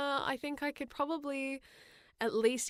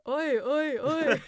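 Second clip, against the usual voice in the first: shouting oi; 4 semitones higher, 7 dB louder, slower than usual. Pretend. Calling out like Yakuza thug.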